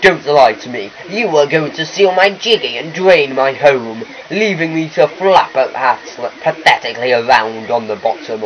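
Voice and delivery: hammed-up wronged villain, moderately done; lightly voiced accusing boss fish. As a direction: accuse like a self-important fish.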